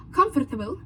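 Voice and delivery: put-on Portuguese-French accent with highlighted consonants; Prince Naveen's accent. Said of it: "highlights the sound of the consonants".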